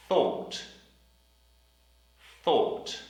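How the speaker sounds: Thought with a blown, unvoiced th; Thought, tongue out for the th; careful th in thought. Shown as a demonstration. Teacher drilling the word Thought. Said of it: "We also have".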